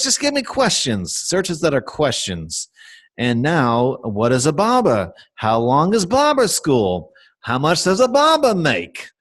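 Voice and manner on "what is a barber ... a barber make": put-on Boston accent. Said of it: "a Boston accent".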